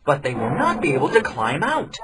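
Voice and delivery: put-on young man explaining the trap to villagers; young man's voice. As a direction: lay out the plan clearly. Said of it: "said the young man".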